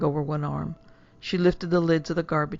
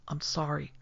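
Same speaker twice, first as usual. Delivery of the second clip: mumbled; 8 dB quieter than usual. Acted. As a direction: mutter it almost to yourself. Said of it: "then mumbled".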